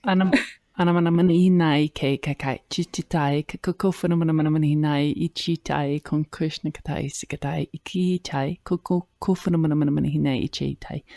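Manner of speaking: flowing, chant-like stream of made-up syllables; light language. Real, not acted. Co-host answers the request with light language. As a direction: let the syllables pour out in a rolling rhythm. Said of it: "We're having a light language conversation".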